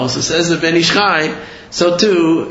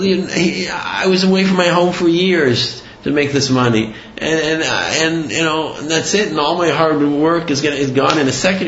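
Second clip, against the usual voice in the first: slightly raised, whiny sob-story voice; imitated tearful pleading; 3 semitones higher than usual. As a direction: lightly act out a victim's lament. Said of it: "he starts crying".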